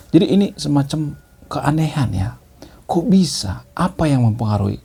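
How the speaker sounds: whispered aside. Real, not acted. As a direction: let this slip out as a hushed aside. Aside on an oddity.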